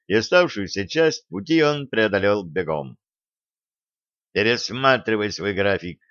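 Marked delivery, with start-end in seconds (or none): none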